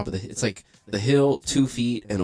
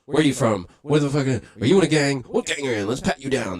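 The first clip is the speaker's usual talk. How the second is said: cop interrogating; 4 semitones higher, 4 dB louder than usual. Retold or imitated.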